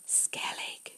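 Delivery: soft unvoiced whisper of a name; calling softly from deep inside. A narrator's reading. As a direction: breathe the name. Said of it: "she whispered".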